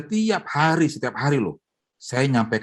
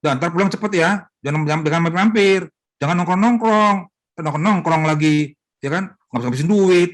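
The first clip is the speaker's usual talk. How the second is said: higher, louder, fast nagging; nagging wife; 5 semitones higher, 4 dB louder than usual. Retold or imitated. Wife nagging her husband at breakfast, fast and loud. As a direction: rattle off the warnings, nagging. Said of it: "Jangan dicerewetin".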